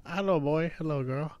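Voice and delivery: lightly voiced landlord greeting; landlord impression. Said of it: "That's how I said boy".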